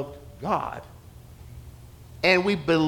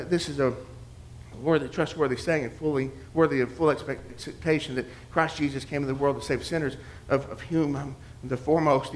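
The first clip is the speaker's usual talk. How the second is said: murmured recitation; 2 semitones lower, 6 dB quieter than usual. Retold or imitated. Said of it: "let your mind wander".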